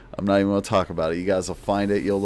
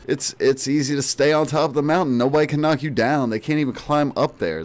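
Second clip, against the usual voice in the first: lofty boast; 6 semitones higher than usual. Pretend. Boasting about being champion.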